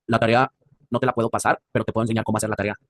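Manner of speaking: mock a classmate who never changes tone; monotone classmate. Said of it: "habla en un mismo tono siempre". (compañero monótono, voz grave y lenta)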